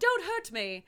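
high, loud panicked begging; hammed-up terrified plea. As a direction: plead like a victim reliving the attack. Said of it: "sounds very dramatic, but also very scared".

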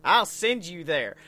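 imitating a southern officer's threat; thick southern accent. Southern officer threatening unruly kids, thick southern accent. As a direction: put on an exaggerated southern accent. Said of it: "had the most southern accent".

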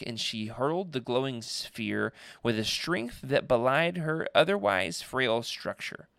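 measured dramatic storytelling; audiobook-style narrator; story narration. Acted. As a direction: read it like a dark bedtime tale. Reads story aloud.

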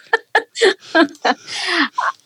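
high falling laugh. Real, not acted. Laughs at the joke.

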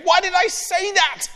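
high, far-off anxious thought; boy's panicked thought. Acted. Ben asking himself in panic, high pitched. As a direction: scold yourself in panic.

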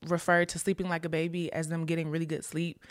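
hushed, breathy aside; whisper. Real, not acted. Unvoiced whisper aside about baby sleep.

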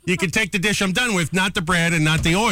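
mock scolding. Retelling scolding the busboy.

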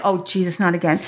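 low retold groan of resignation; dropped, exasperated aside; weary dread. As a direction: think it aloud, low and weary. Mother's dreading inner reaction.

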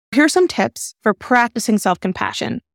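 practicing lifted and leaned on; a light push on practicing; stress on practicing. Shown as a demonstration. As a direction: give the word practicing extra weight. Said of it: "I put emphasis on the word practicing".

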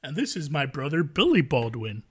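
lightly put-on white-guy voice, stretching the name; Alec Baldwin. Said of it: "Isn't that how white people sound".

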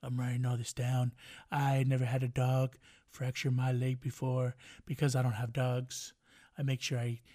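lightly voiced gloating president, low and slowed; a hint of smug Trump, slowly; imitating Donald Trump. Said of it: "I bet you Donald Trump's laughing... He's like".

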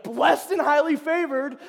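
loud, high, slowed catchphrase; cheerful set phrase, hammed up; imitating David. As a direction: deliver it like a proud motto. David's stock reply, imitated.

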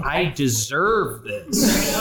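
mocking slow repeat. Mocks colleague's words back.

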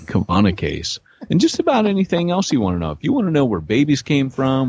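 high excited ad pitch; ad read. Acted. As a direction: pitch it like an infomercial. Reads ad for Simplify Church.

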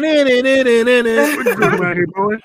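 stretched out menacing hillbilly line; slow mock frog drawl. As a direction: drag every word like the swamp frog. Imitating the frog, drawn out.

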